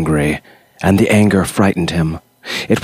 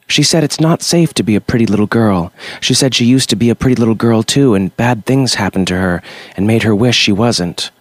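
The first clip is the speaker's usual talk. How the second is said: put-on little girl confiding; 3 semitones higher than usual. Little girl telling Creature about her mother, quick and guileless. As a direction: let it tumble out like a child.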